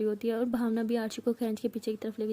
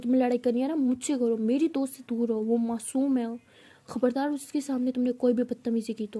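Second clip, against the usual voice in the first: firm, louder scolding of a bully; angry warning; 3 dB louder than usual. Acted. Aarshi shielding her friend, warning the senior angrily. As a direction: warn her off, protective and angry. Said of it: "आरशी को बहुत गुस्सा आता है".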